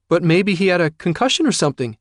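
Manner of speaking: high, loud and fast worried protest; anxious plea. Acted. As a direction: rush it out, scared it was her fault. Frightened daughter pleads with father.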